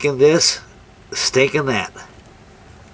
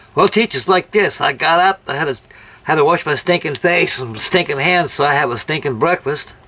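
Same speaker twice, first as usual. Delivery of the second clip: lightly imitating a cocky schoolboy; a touch of cocky kid answering teacher; retold smart-aleck answer; mock cocky; 4 semitones higher than usual. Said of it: "he was cocky and slant".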